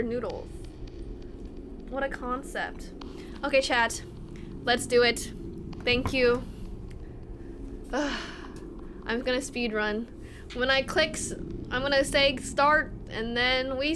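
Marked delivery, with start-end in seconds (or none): none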